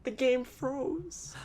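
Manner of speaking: high, very slow drawn-out delivery; dramatic reveal. Real, not acted. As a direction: drag it out for drama.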